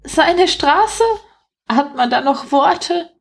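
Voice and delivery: high-pitched indignant rat voice. A narrator's reading. Rat to its mate about the man's claim, high and indignant. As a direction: exclaim in disbelief as a little rat. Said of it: "empörte sich eine der Ratten".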